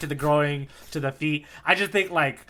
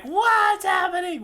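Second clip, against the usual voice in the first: high, slow, bewildered squeak; confused Buggy; 4 dB louder, slower than usual. Retold or imitated. Buggy realizing he's in pieces, baffled. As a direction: play Buggy baffled, pitching way up. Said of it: "He's like".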